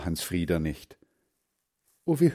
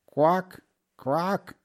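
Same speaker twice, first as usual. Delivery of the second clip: short, higher-pitched quack; duck quack; 9 semitones higher than usual. A narrator's reading. Unseen duck heard by the ditch, quacking. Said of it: "machte es".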